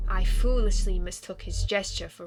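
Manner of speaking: lightly voiced, measured vampire ghost; a touch of solemn regret, pausing between phrases; reserved vampire recalling an old hurt; wistful vampire ghost.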